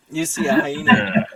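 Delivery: hushed, breathy dramatic reveal; over-the-top GM voice acting; dramatic narrator voice. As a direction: whisper it like a movie trailer. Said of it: "Voice acting".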